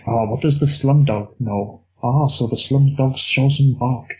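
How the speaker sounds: slow, hammed-up bad Indian accent as the police detective; mock the detective in a clumsy Indian accent, drawn out; terrible Indian accent. Podcast host quoting the film's police detective, terrible Indian accent. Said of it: "that was a terrible accent".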